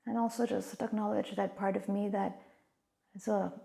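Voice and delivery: calm, unhurried meditation voice with long pauses; guided meditation. Real, not acted. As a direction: gently guide listeners inward, leaving space between phrases.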